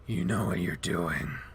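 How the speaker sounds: low, slow, flat deadpan. Acted. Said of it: "in that same deadpan voice".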